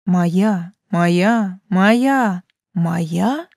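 shifting whispering voices; many-voiced whisper. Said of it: "На разные голоса зашептала тьма".

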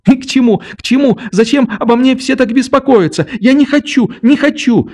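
put-on a child crying out beside herself; frenzied cry. A narrator's reading. Nelli cries out in a frenzy, high and shrill. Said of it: "вскрикнула вдруг Нелли в каком-то исступлении".

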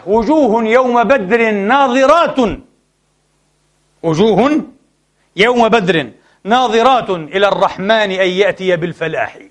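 slow, stretched classical verse; measured, formal Arabic verse reading; poetry recitation. Acted. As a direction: declaim the poem with long vowels and deliberate pauses. Recites Hassan's poem.

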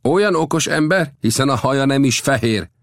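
high-pitched, sceptical remark; doubtful. A narrator's reading. Chief doubts the young visitor's wisdom, doubtful. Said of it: "kételkedve megjegyezte".

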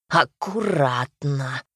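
slow, drawn-out warning from a fretting Koschei; a slow, fussy careful-now cry; anxious exclamation. A narrator's reading. Koschei fretting over the gold, a lightly voiced anxious exclamation. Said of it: "он то и дело восклицал".

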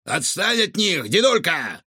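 high cheeky challenge; shout. A narrator's reading. Raccoon defends children from the cook, shouting. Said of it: "крикнул Рикошет".

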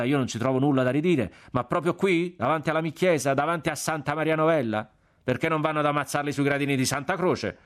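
friar's lively, affronted grumbling; aggrieved friar. A narrator's reading. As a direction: protest to the gentlemen on behalf of his church. Narrator voices the aggrieved friar.

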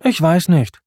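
mildly listless shrug of a reply; understated, falling indifference; Simba listless. A narrator's reading. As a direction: answer with little interest. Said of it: "ebenso lustlos".

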